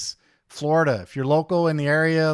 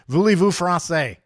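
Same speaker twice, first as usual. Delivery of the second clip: put-on French accent; 4 semitones higher, 5 dB louder than usual. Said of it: "I knew a lot of French words".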